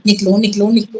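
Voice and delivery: a hint of a low male voice; imitated heavy male voice. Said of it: "एक भारी सी male voice मुझे बोले". (भारी मर्दाना आवाज़ की हल्की नकल)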